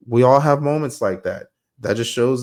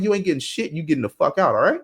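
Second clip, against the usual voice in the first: higher-pitched retold telling-off; retold ultimatum; 5 semitones higher than usual. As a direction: lay down the law to him, pitched up. Retold throwing out a rude customer.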